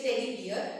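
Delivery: "teddy bear" ending like beer; mispronounced teddy bear. Shown as a demonstration. Teacher shows students' mistake, "teddy bear" as teddy beer. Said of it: "don't say beer".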